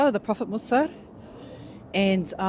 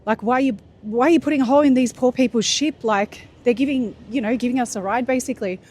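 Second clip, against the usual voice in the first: retold freak-out; 2 semitones higher, faster than usual. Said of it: "And Musa freaked out".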